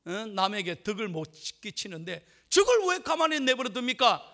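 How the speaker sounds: imitating an indignant church member; angry complaint. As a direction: demand action, acting out outrage. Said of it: "화를 내면서 막 분노하면서 따지더래요".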